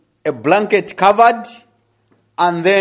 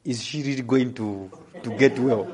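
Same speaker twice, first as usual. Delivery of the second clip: whispering doubt; 9 semitones lower, 9 dB quieter than usual. Retold or imitated. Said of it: "The enemy was whispering".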